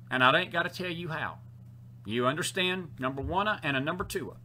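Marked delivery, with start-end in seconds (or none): 3.0-4.3 lightly imitated bandleader count-off; a soft hint of a bandleader's count; a bandleader. Preacher joking about bodily functions, light bandleader imitation. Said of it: "As a bandleader would say".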